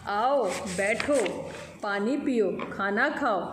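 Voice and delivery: slow, sweet parrot greeting. Acted. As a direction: draw the welcome out sweetly, unhurried. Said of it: "वह मीठी आवाज़ में कहने लगा".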